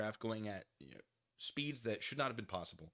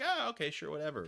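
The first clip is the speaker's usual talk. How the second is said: mock casual agreement; 5 semitones higher, 4 dB louder than usual.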